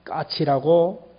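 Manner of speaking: slow, patient and gentle; kind answer. Acted. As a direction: draw it out tenderly for a child. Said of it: "친절하게". (아이에게 천천히 다정하게)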